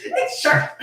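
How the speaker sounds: high squeal of laughter into the line; laughing. Real, not acted. Co-host cracking up at the fic, high laughing. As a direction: crack up while reading. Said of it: "I still laugh".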